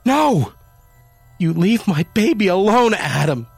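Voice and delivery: very high, loud cry. A narrator's reading. Wife cries out at husband chasing kitten, very high and loud. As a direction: scream him away from her baby. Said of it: "Jamie cried".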